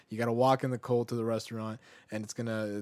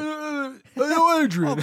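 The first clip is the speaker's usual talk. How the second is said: laughing; 9 dB louder, slower than usual. Real, not acted. Cracks up at the bit.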